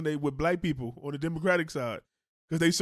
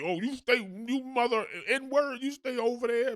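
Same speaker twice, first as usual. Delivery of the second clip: put-on racist old man voice; 5 semitones higher than usual.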